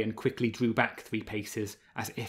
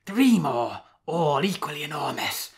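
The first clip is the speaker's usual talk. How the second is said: proud; 4 semitones higher, 4 dB louder than usual. A narrator's reading. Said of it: "said Ursa proudly".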